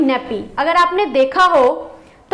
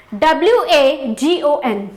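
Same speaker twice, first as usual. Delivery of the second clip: spelling out slowly; slower than usual. Shown as a demonstration. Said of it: "वैगन".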